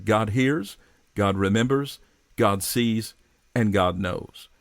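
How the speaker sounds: "God hears", "God remembers", "God sees", "God knows" each set apart, falling; sermon points. Shown as a demonstration. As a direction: lay out each point with weight. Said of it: "The four two-word phrases".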